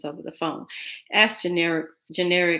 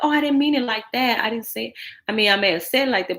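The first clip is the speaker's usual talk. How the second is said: flustered backpedaling; 5 semitones higher, 3 dB louder, faster than usual. Retold or imitated.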